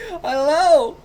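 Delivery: badly faked British baby. Testing how to do a baby British voice, high. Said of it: "How do you do a baby British voice?".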